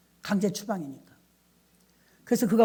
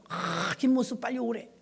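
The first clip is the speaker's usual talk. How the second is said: mock caller; 5 dB quieter than usual. Voicing caller summoning pastor.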